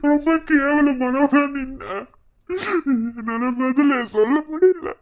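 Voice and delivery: crying. Acted. Husband breaks down, humiliated.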